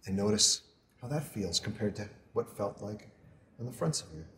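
soft, measured meditation voice with long pauses; guided meditation. Acted. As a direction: guide them gently through a body scan, unhurried. Leads a body scan meditation.

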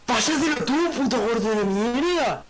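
high, slow jokey insult; mock angry yell. Real, not acted. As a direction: bark it playfully at your friend. Friendly insult banter. (insulto fingido a gritos)

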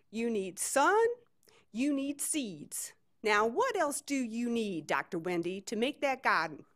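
lightly put-on Southern lecturing; Leanne's Southern accent. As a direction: spell it out for her in a Southern lilt. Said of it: "try to do a Southern accent".

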